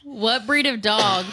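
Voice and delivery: slow, lightly played dog voice; a hint of talking dog; attempted dog accent. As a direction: drag it out like a cartoon hound, half-committed. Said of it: "talk in your best dog accent".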